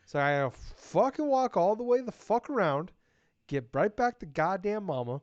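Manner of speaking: high, loud, worked-up griping; loud rant. Real, not acted. Telling podcast partner about the trek, loud worked-up rant. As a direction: vent like the trek ruined your day.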